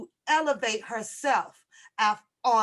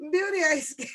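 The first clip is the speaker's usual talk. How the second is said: laughing; 3 semitones higher, faster than usual. Real, not acted. Laughing while repeating the quote.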